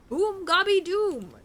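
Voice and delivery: goblin voice. Acted.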